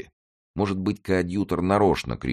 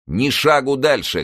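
high, loud, slow command; commanding shout; 10 semitones higher, 5 dB louder than usual. A narrator's reading. Coadjutor halts the crowd from the window, loud shout. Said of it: "крикнул коадьютор".

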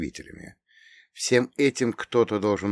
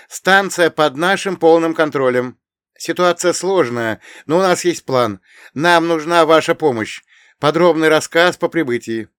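calm and confident; 8 semitones higher, 9 dB louder than usual. Acted. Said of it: "её голос звучал спокойно, но уверенно".

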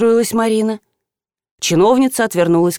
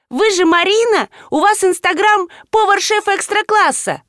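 восторженный вопль; 12 semitones higher than usual. A narrator's reading. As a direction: gush like a starstruck girl. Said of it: "девочка завопила". (восторженно вопя, высоким голосом)

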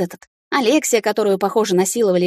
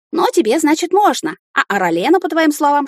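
rising anger; 8 semitones higher, 4 dB louder than usual. Acted. Heroine furious in quarrel.

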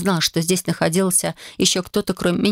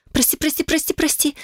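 much higher, rushed frightened apologies; frightened babbling; 10 semitones higher than usual. Acted. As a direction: gabble sorry in panic. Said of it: "забормотала испуганно". (испуганно бормоча, намного выше)

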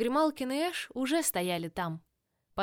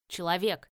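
grumbling cat; 4 semitones lower than usual. Acted. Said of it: "проворчал Грималкин".

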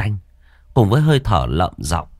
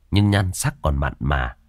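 ordinary delivery, nothing marked

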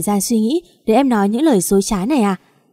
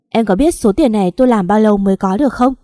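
louder, bitter furious reproach; angry rebuke; 4 dB louder than usual. Acted. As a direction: throw the words at her in rage. Chồng giận ném sổ tiết kiệm. (chồng trách vợ, giọng to và giận dữ)

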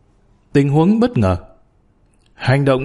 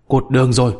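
plain reading voice

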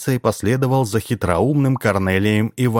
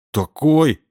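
put-on a kid grabbing what he wanted; eager child; 7 semitones higher than usual. A narrator's reading. Boy accepts the ball.

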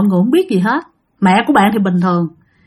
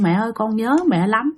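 softer, mildly tearful plea to mother; a hint of a possessed son crying to his mother; soft, lightly voiced tearful "Mẹ ơi"; mock crying plea; 5 dB quieter than usual. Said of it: "nhập vô khóc quá trời luôn".

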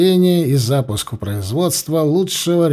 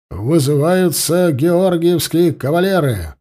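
solemn roar; 3 semitones higher than usual. Acted. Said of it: "Торжественным голосом проревел сотник".

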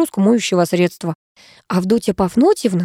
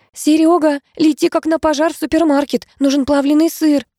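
yell; 8 semitones higher than usual. A narrator's reading. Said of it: "заорала так громко".

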